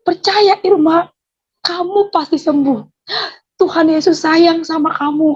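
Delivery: high, emphatic reassurance; imitated firm assurance. Neighbour convincing Irma she will heal, high imitated assurance. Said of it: "dia meyakini saya".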